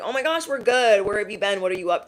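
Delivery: lightly mocking a fake-friendly old friend; a hint of a phony acquaintance pretending nothing happened. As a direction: play innocent, sugary and bright. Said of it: "They're gonna try to act like".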